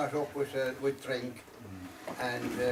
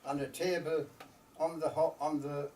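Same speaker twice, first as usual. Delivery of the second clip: slow, measured storytelling verse with long pauses; unhurried recital, letting each phrase settle; poem recitation; 2 semitones higher, slower than usual. Acted. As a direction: recite it line by line as a wistful Irish ballad-poem.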